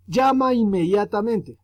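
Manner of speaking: teacher demonstrating an exclamation. Shown as a demonstration. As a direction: exclaim it like an urgent call. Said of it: "entre signos de exclamación".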